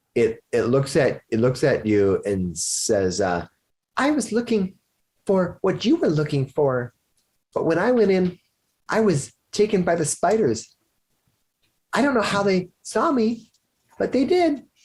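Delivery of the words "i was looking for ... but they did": tiny, very high, rapid little-creature voice. Narrator voices a tiny creature taken by the spiders, very soft tiny voice. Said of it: "it's so soft".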